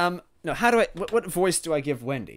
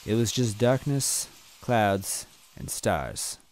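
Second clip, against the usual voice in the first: story narration; 3 semitones lower, 8 dB louder than usual. A narrator's reading.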